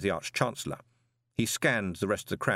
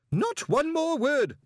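high, loud, slow furious scream; 4 dB louder, slower than usual. A narrator's reading. Greenyham screams at the wizard to stop reading, loud. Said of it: "screamed Greenyham".

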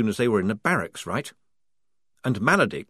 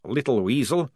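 Maledict dry; 6 semitones higher, 5 dB louder than usual. A narrator's reading. Maledict voiced.

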